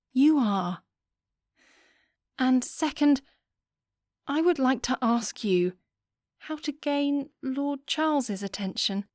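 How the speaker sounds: put-on earnest girl pleading her case; a hint of a bashful debutante; young Lillian. Lillian confides in Charlotte.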